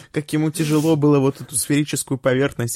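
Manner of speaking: laughing. Real, not acted. Laughing again at sphere joke.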